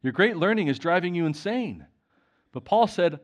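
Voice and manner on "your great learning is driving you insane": raised, higher and louder accusation. Acted. Festus shouting at Paul in court, loud and higher. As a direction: call Paul mad across the court. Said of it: "Festus said in a loud voice".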